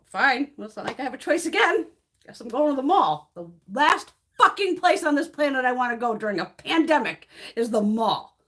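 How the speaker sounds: annoyed ranting, hammed up a little; exasperated rant. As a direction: vent the frustration, half mocking. Grudging rant about going to mall.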